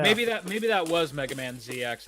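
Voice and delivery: holding back hiccups; suppressing hiccups. Real, not acted. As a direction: talk through the hiccups. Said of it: "sorry, hiccups now".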